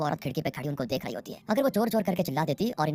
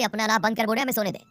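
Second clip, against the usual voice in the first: retold annoyed shout, high and louder; neighbour's yell; 7 semitones higher, 4 dB louder than usual. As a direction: yell like a neighbour kept awake. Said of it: "पड़ोसी चिल्लाते हैं कि".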